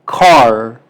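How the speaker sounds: car with English r and vowel. Shown as a demonstration. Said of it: "cuando tú pronuncias la palabra". (Car con pronunciación inglesa)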